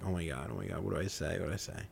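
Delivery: hushed, fast panicked muttering; quietly freaking out to himself; panicked whisper-quiet. Retold or imitated.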